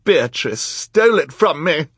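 high, loud accusing cry; outraged cry. A narrator's reading. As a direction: cry out as the wronged villainess. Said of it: "Esme cried".

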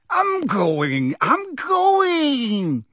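rising, hurried surrender; a touch of a cowering thief giving in; hasty retreat. Acted. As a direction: back off fast from the old lady. Mundungus fleeing.

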